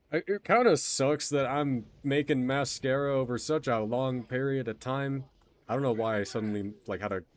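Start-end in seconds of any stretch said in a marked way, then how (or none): 0.1-5.2 southern accent. Real, not acted. Streamer chatting to viewers, suddenly in a light southern accent. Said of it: "southern accent for a second".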